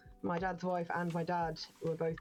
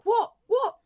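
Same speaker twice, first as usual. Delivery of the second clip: alarmed what; 14 dB louder than usual. Retold or imitated. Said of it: "she was like".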